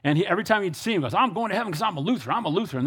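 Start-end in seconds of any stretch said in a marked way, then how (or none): 1.2-2.8 lightly imitated Texas drawl; a hint of Texan singsong. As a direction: mimic a step-grandpa's Texas twang. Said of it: "They're from Texas and had that draw".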